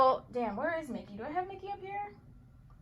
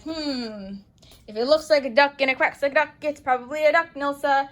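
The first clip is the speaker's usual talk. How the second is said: knowing aside; 3 semitones higher, 4 dB louder than usual. Retold or imitated. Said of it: "you're like".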